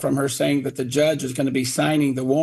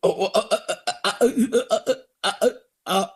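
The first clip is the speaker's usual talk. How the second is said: mock flustered stammer, higher; stammering mayor; 4 semitones higher, faster than usual. Father imitating the mayor caught off guard, stammering. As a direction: fumble for words, caught out. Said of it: "He goes".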